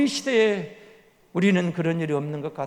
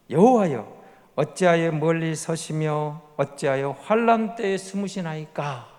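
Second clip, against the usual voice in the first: loud call. Shown as a demonstration. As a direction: open with a loud cry, then read slowly. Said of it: "하나님을 부르고 뭐라고 말하고 있어요?".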